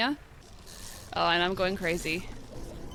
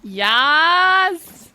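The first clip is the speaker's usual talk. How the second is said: real cheer; 8 semitones higher, 12 dB louder than usual. Real, not acted. Triumphant cheer during game.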